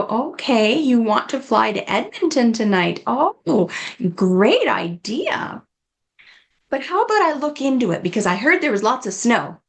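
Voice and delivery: bright, agreeable, then a quick gentle turn; positive redirect. Shown as a demonstration. Caregiver humouring a patient's plan, warm and upbeat. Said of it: "I'll always go".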